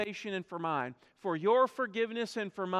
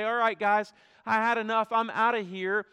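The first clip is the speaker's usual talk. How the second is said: casual quitting; 6 dB louder than usual. Pretend. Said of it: "climb down off that cross and say".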